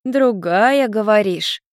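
high, mocking echo of "Другая"; scoffing little girl. A narrator's reading. Little girl picks up Ian's word, mockingly sceptical. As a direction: echo "Другая" back with a teasing lift. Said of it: "Люся хмыкнула".

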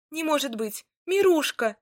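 high, loud joyful cry; joyful exclamation. A narrator's reading. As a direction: call out to him with joy. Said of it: "воскликнула Марья".

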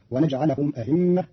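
"أئمة" with second hamza softened to a glide; eased hamza. Shown as a demonstration. Teacher shows Qalun's reading, "أئمة" with eased hamza. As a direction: soften the catch inside "أئمة". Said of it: "بتسهيل الهمزة بين بين".

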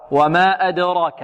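slow "وما أدراك" with a bounce on the dal; qalqalah on dal. Shown as a demonstration. Teacher illustrates the rule, "أدراك" with bounced dal. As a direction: echo the d in "أدراك" before the ra. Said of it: "الدال هنا مقلقلة".

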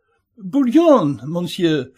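hint of a fussy French host; French restaurateur. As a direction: play the polite French caterer, eager to please. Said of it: "пояснил француз".

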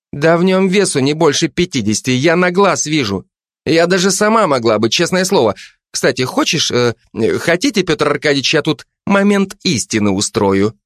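Zhanna's voice. Acted. Жанна давит на Кулебяку, напористо и выше. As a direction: lean on him, mock-polite and suspicious. Zhanna offers to force confession.

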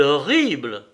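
exclaiming. Acted. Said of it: "s'écria-t-elle".

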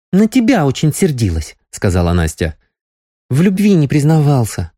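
put-on young girl, reproachful. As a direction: chide him like a young girl.

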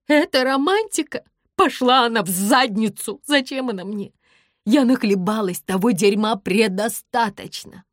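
fed up and shouting at him; angry outburst. A narrator's reading. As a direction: spit it out in anger.

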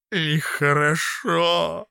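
slow, high weepy; tearful. A narrator's reading. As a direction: moan it out. Crying Fityulka.

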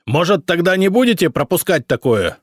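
loud, high sarcastic bark. A narrator's reading. Emperor barks sarcasm at the boyar, angry. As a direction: snap it like a jab. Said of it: "рявкнул Самослав".

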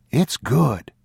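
high, voiced child's prompt; coaxing boy. A narrator's reading. Boy urging old man to take tin, high child voice. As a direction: urge him aloud like a child.

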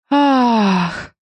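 voiced moan. A narrator's reading. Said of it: "в голос застонала Веста".

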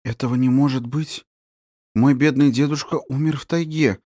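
a touch of a sinking, sad voice; mild dejected reply; crestfallen. Acted. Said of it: "упавшим голосом отвечала она".

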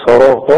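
"صراط" with thick ṣ, r and ṭ; heavy emphatic sounds. Shown as a demonstration. Teacher repeats for the student, thick heavy "صراط". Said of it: "برضو تفخم".

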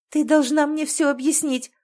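hurt and furious, demanding answers; trembling, angry cry at her sister. A narrator's reading. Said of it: "Её голос дрожал, но ... гнев".

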